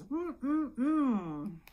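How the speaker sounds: high hummed dog noise; little dog whimper. Pretend. Storyteller voicing the other little dog, playful whimper. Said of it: "the other little dog goes".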